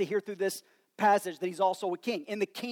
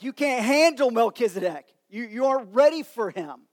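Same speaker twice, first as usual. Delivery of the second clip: Jack Nicholson; 3 semitones higher, 7 dB louder than usual. Retold or imitated. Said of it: "goes Jack Nicholson from A Few Good Men".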